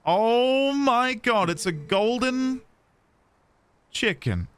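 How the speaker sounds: amazed gasp. Real, not acted. Sudden golden chicken in game.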